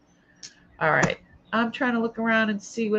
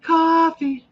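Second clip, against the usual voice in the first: Coffee drawn out higher as a Long Island cawfee; Long Island accent; 8 semitones higher, 4 dB louder than usual. Shown as a demonstration. Host mimicking how Long Islanders say coffee, in a Long Island accent. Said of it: "They say coffee".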